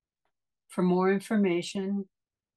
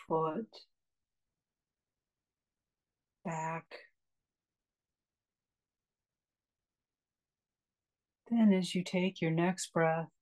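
calm meditation guide with long pauses; unhurried, spacious guiding into relaxation; guided meditation. Acted. Meditation teacher leading a class into a restful breath, calm guiding voice.

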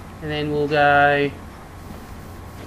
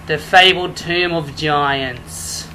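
slow, grand place-name reveal; mock-official announcement; 2 semitones lower, much slower than usual. Gamer announcing the fabled tomb to viewers, mock-official tone. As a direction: draw it out ceremoniously. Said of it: "Ooh, it feels all official now".

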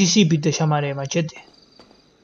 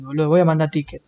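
ordinary talk

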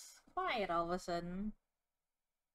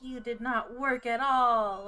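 indignant; 8 dB louder, slower than usual. Acted. Accusing in playful argument.

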